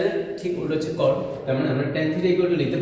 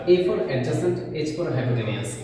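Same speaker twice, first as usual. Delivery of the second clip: very slow, letters spaced out; slow dictation; much slower than usual. Shown as a demonstration. Teacher spelling out the mnemonic, slowly. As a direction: dictate each letter clearly.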